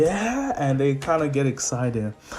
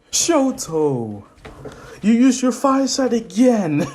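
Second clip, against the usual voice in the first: raised high voice breaking into laughter; joking mock scold; 8 semitones higher, 5 dB louder, slower than usual. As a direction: play at telling someone off, then crack up.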